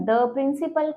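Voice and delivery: short schwa in "the principal"; "the" as duh. Shown as a demonstration. Teacher giving consonant example, "the" as "duh". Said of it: "pronounce कैसे करेंगे".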